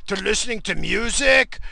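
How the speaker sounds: high, excited mock voice of an oblivious coworker; mocking coworker impression. Mimicking a coworker obsessed with presidents, mocking high voice. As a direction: rattle on in a high-pitched dopey imitation. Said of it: "He's like".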